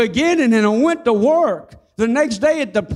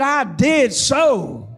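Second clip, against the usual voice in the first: slow, emphatic talking back; defiant retort; much slower than usual. Retold or imitated. Young man answering the devil out loud, slow and defiant. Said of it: "I spoke back out loud".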